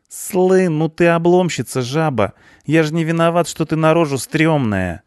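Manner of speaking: high, loud cheeky punk voice. A narrator's reading. Punk mouthing off at the cleaner, cocky. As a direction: fire off slang in a high, excited voice.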